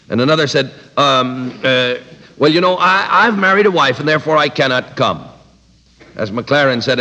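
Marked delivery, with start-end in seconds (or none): 1.0-5.2 sheepish excuse. Retold or imitated. Third guest's excuse.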